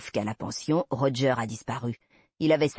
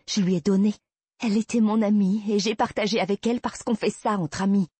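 higher and louder, furious defence; indignant outburst; 8 semitones higher, 4 dB louder than usual. Acted. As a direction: fling it back at him in outrage. Heroine furiously corrects Ben. (éclat indigné, plus aigu et fort)

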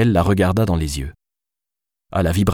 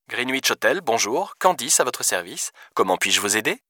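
soft, higher-pitched phone greeting; polite hotel receptionist; 4 semitones higher, 6 dB quieter than usual. Acted. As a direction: greet a caller with professional politeness.

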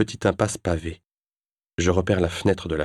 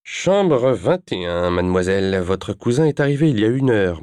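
landlady voice; 3 semitones higher, 4 dB louder than usual. Acted. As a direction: announce it like the concierge. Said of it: "m'annonce-t-elle". (voix de logeuse)

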